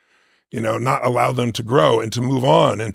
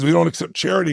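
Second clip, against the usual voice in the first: stubborn refusal; 5 semitones higher than usual. Retold or imitated. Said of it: "My father says".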